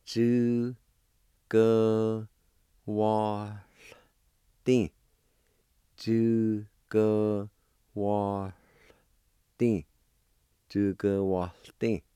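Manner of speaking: Ju, gu, wa, ti as separate beats with a faint H before the ti; syllable by syllable. Shown as a demonstration. Teacher showing the silent L in the word for goods. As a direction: split the word into Ju, gu, wa, ti. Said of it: "like this".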